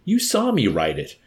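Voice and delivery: high, loud exasperated protest; exasperated cry. A narrator's reading. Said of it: "the chaplain cried in exasperation".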